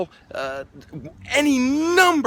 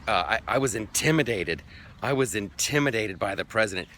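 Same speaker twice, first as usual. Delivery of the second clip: a lightly voiced, meek Comey, a touch softer; plain voice with just a hint of a timid official; mock Comey; 4 semitones lower, 3 dB quieter than usual. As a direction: mumble it like a cowed witness. Mocking Comey's testimony.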